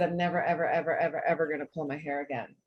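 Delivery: retold vow with a laugh running through it. Speaker to her audience, recalling the vow she made as a girl, laughing. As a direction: laugh as you repeat every ever.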